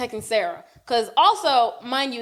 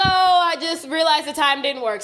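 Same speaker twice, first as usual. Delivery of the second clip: fake excuse; 5 semitones higher, 4 dB louder than usual. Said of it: "And I was like".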